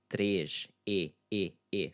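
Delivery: "três" with a closed e, the vowel then repeated alone; closed stressed ê. Shown as a demonstration. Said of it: "we have our closed, stressed syllable".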